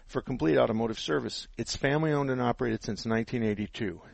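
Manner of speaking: on-air sponsor read; radio ad, upbeat and steady. Acted. Reads a sponsor ad.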